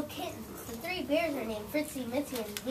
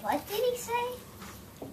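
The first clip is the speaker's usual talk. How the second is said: high slow puzzled question; 10 semitones higher, much slower than usual. Acted. Pig didn't hear.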